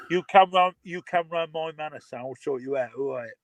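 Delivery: mock Cockney threat; lightly played Cockney hard man. Shown as a demonstration. Threatening a stranger on his patch, mock Cockney. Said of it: "Cockney accent".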